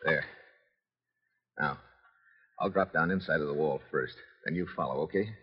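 soft, low voice; hushed. Acted. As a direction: keep your voice down while sneaking. Sneaking into the villa grounds.

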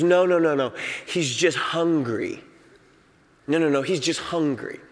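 soft, low, soothing; calm reassurance. Retold or imitated. Wife calmly reassuring her panicked husband, soft and low. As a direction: hush him gently, it's fine. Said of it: "And she goes".

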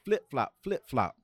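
loud, slow urgent call; Seau's call. Retold or imitated. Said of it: "He said".

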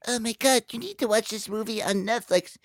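high, excited-mom impression in a light voice; high-pitched mock mom recommending a film; imitating mom. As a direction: put on your mom's high voice, urging a movie on you. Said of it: "my mom was like".

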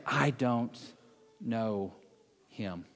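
low, soft, halting words; hushed confession. Acted. Preacher admitting denial under stress, sinking halting hush. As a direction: drop low and fade out, word by word.

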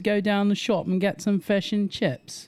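high, slow put-on British accent; hammed-up British accent, drawn out and high; mock British accent. Shown as a demonstration. Australian showing Americans how the British talk, mock British accent. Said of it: "British talk like this".

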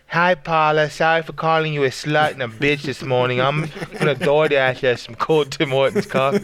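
sweet fake apology with a mocking lilt; mocking Devin. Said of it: "Then he's like".

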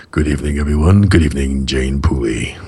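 put-on deep, low host voice; really deep voice. Shown as a demonstration. Host demonstrates his deep voice greeting the guest, really deep. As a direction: drop right down low for a mock-smooth greeting. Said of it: "thinking of talking really deep this whole evening".

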